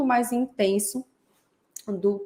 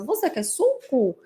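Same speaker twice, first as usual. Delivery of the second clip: slow, higher parroting of a question; child's echolalic echo; 5 semitones higher, slower than usual. Acted. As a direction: lightly imitate a child echoing, drawn out. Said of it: "até com a mesma entonação".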